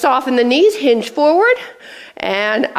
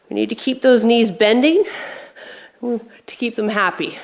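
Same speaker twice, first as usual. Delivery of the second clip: winded, short of breath. Real, not acted. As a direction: speak between breaths. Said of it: "I'm already out of breath".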